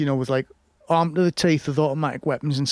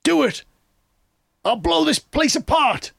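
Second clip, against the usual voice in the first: mock villain shout; 12 semitones higher than usual. Friend retelling a film scene, shrieking like the villain. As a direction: play the crazed bomber, overdone. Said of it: "the henchman turns around and he goes".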